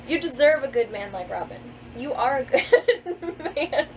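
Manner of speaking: laughter breaks in mid-line; reading while laughing. Real, not acted. Author reads her book's line, cracking up. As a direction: read on while the giggles win.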